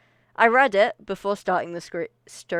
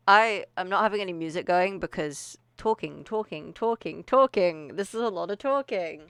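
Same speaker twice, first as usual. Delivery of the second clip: breathless from talking; short of air between words; out of breath. Real, not acted. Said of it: "I am out of breath".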